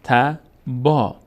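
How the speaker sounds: ت با joined slowly, long a in با held; slow teacher blending; slow syllable drill. Shown as a demonstration.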